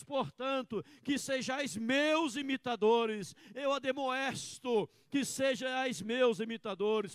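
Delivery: slow, loud preaching, words drawn out; fervent preaching. Acted. Pastor preaching Paul's words to the congregation, fervent. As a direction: preach with full conviction.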